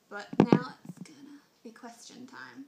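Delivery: breathy stage whisper announcing the next part; playful whisper. Pretend. Vlogger announcing question time to viewers, whispered. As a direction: hush it like a secret reveal.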